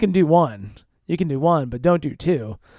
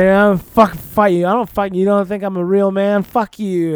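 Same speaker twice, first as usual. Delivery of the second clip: imitating drunk rant; 3 semitones higher, 6 dB louder than usual. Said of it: "he's just like".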